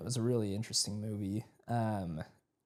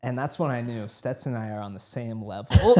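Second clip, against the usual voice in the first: laughing; 6 dB louder than usual. Real, not acted. Laughing at shared tears.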